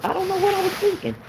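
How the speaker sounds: high, fast, bewildered; high quick disbelief; exasperated squeal. Real, not acted. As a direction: squeak at your own mistake. High exasperated self-talk.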